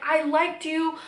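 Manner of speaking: acted-out upset, no tears; retold emotional distress. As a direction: pour out the grievance as if back in the argument. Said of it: "I was emotionally distressed".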